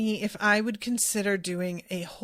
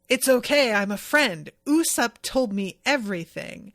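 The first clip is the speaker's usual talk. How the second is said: mysterious stranger voice; 4 dB louder than usual. Retold or imitated. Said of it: "with a totally different voice".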